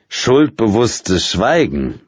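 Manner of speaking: slow, amused and smiling remark; friendly, smiling. A narrator's reading. Drunk editor teasing the silent women, smiling and slow. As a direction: savour it slowly with a smile. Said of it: "stellte er freundlich lächelnd fest".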